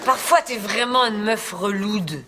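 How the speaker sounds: slow put-on Parisian French; affected Parisian accent. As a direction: lay on the Paris slang and accent. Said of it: "ton accent".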